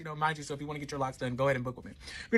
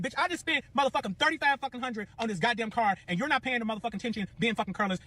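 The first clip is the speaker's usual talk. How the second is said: re-enacted irate scolding, higher voice; worked-up telling-off; losing it; 5 semitones higher than usual. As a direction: lay into him for being careless. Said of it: "I done lost it".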